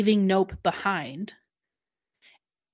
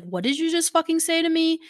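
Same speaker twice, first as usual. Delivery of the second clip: higher-pitched mock outrage at Nope; retold angry snap; 9 semitones higher than usual. Kunsam snapping at Nope after his accusation, mock angry. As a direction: snap back like you've been insulted.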